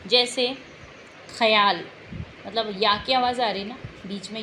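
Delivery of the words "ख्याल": ख्याल said louder with a clear य glide after ख; teacher shows the य sound in ख्याल. Shown as a demonstration. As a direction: let the य be heard in ख्याल. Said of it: "इसमें य की आवाज़ आती है".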